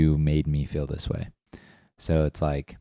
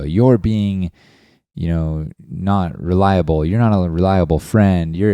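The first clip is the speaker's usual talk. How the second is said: louder, pointed accusation at a friend; mock attack; 4 dB louder than usual. To a friend who backed out of moving rocks, a louder mock attack. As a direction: jab the words at them like a charge. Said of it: "and I'm attacking them".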